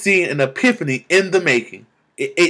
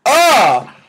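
joyful cry; 10 semitones higher, 5 dB louder than usual. Real, not acted. Overwhelmed joy, cry of delight.

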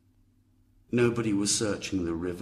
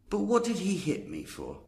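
much higher, aggrieved whine; Bill complaining to Sam, high and aggrieved; whiny Bill; 13 semitones higher than usual. Acted. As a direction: whine it like a hurt grown man.

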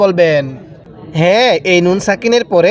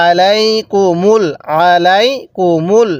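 long drawn-out chanted recitation, every vowel stretched; slow Quran recitation; much slower than usual. Shown as a demonstration. Teacher models the verse for students, slow drawn chant. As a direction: intone it slowly, as the teacher's model reading. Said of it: "এরপরে".

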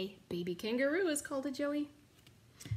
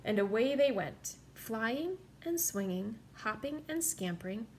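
lively picture-book read-aloud; story narration. A narrator's reading. Reading a picture book to children, lively. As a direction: read the story to little listeners.

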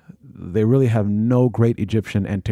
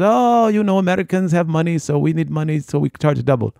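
pushy tout; 6 semitones higher than usual. Retold or imitated. Guide explaining double price.

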